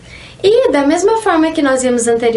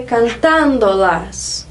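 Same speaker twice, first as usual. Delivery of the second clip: cantándolas with the stress on TÁN; stress on third-last syllable; 3 semitones lower, much slower than usual. Shown as a demonstration. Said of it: "geralmente a sílaba mais forte".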